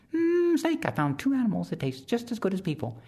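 very high, buzzing insect voice; high whiny mosquito, eager to help; tiny mosquito voice. Acted. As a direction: squeak it like a little mosquito.

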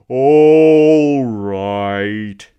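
loud, grudging grumble; grumbling. Acted. Man in the sun giving in to the woman, loud grumble. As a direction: give in with bad grace. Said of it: "he grumbled".

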